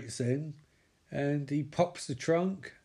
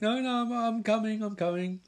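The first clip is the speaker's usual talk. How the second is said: flustered woman; 7 semitones higher than usual. Retold or imitated. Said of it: "she's like".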